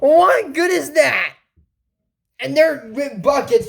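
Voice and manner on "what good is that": whiny frustration. Real, not acted. Mock cry of frustration.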